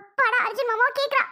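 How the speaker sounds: pleased and amazed, pitch lifted; relieved excitement. Acted. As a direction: check hopefully that she really remembers. Relieved she remembers her husband.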